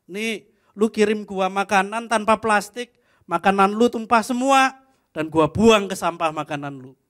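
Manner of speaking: retold furious rant at the restaurant; angry message. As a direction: tell them off for spilled food. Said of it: "Marah sekali saya".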